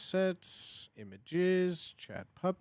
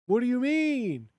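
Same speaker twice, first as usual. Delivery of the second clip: higher, louder outraged question; indignant disbelief; 7 semitones higher, 7 dB louder than usual. Real, not acted. Streamer baffled at the AI voice, high and loud. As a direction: demand it in disbelief. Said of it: "Why does it keep saying swagger?".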